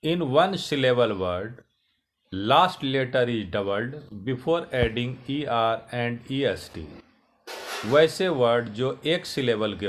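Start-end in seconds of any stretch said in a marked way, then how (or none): 0.0-6.8 slow, careful reading of the rule; rule read aloud. Shown as a demonstration. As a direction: read the rule out slowly for students. Reads English rule slowly. (धीमे, साफ़ नियम पढ़ना)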